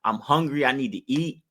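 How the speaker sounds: mild whiny plea for fifty bucks; begging cousin. Retold or imitated. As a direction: lightly play the broke cousin hitting you up. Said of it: "that cousin that's like".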